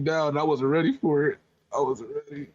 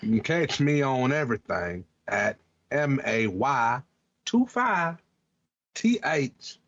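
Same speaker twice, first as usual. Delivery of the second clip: cowboy voice. Acted. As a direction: read your socials like a cowboy. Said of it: "give you my socials in my cowboy voice".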